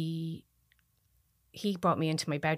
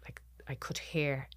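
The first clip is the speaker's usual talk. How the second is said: whisper; 2 semitones lower, 6 dB quieter than usual. Retold or imitated. Describing eerie silence.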